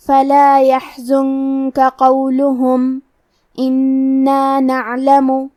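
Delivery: slow chant, a clean pause after "قولهم", then resume at "إنا نعلم"; measured tajweed recitation halting at "قولهم"; obligatory stop. Shown as a demonstration. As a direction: stop fully on "قولهم" before completing the verse. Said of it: "ہم یہ کلمہ پہ رکیں گے".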